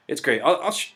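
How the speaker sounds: ordinary delivery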